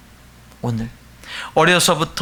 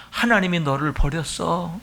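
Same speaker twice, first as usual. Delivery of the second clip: mocking taunt; 4 semitones lower than usual. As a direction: taunt like a scornful enemy, understated. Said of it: "이렇게 조롱합니다".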